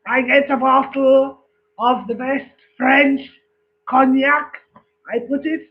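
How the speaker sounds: put-on boasting Frenchman in a joke, French accent. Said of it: "the French one says".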